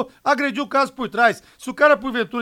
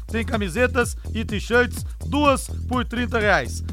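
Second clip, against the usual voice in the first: upbeat live ad read; infomercial. Acted. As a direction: sell the sale with energy. Live ad read over music.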